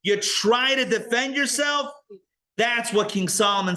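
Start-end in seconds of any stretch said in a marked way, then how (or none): 0.0-1.9 mocking accuser.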